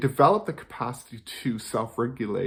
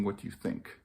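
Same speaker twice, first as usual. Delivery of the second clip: dropped to a soft near-whisper; quiet whisper; 4 semitones lower, 10 dB quieter than usual. Shown as a demonstration. Parent contrasting the question it should not ask, whispered. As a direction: let "What do you think?" fall away to a breathy hush. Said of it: "instead of asking".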